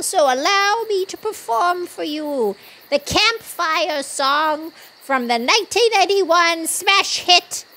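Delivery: building to a loud showman intro; grand announcement. Acted. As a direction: present it like a stage host.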